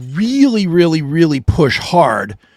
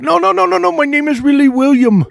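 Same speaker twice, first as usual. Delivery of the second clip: put-on high, loud, protesting Indian accent; mock Indian agent insisting; 9 semitones higher, 5 dB louder than usual. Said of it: "they get mad".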